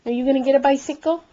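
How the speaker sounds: excited. Real, not acted. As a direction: perk up and ask quickly. Excited question to toddler.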